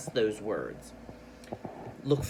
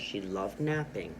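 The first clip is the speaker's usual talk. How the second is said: lower, softer "napping" falling to a stop; pause at the period; 5 semitones lower, 4 dB quieter than usual. Shown as a demonstration. Teacher models a period for pupils, stopping after "napping". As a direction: let "napping" fall, then pause. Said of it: "so I'm gonna pause".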